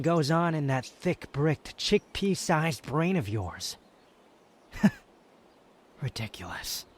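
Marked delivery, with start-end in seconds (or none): 4.8-6.9 scoffing laugh. Acted. Scoffing at the listener's request.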